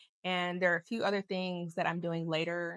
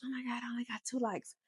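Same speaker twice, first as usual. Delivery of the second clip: mock needy influencer; 6 semitones higher, 5 dB quieter than usual. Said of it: "still need validation".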